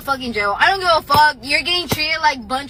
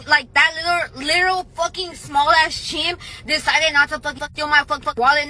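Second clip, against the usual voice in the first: angry shout. Retold or imitated. Angry rant about wallet theft.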